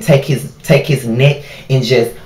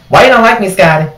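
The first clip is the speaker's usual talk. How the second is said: higher, louder whiny plea; mock whiny plea; 7 semitones higher, 4 dB louder than usual. Customer whines at the silent cashier, mock pleading. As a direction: needle him like a hurt customer.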